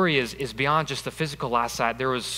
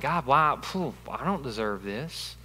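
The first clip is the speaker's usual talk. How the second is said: complaining whine. Retold or imitated. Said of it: "it's a complaint".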